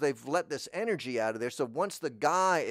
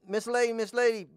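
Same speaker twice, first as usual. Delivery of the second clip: 1 calling the cat; 9 semitones higher, 4 dB louder, faster than usual. Retold or imitated.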